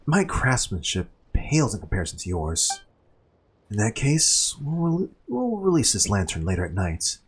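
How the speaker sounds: lightly voiced game character, measured and thoughtful. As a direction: read it as composed in-game dialogue. Reads game dialogue in character.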